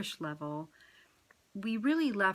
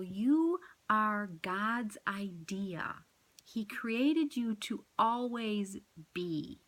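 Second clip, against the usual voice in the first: tender whisper; much slower than usual. Retold or imitated. Tells people they are loved.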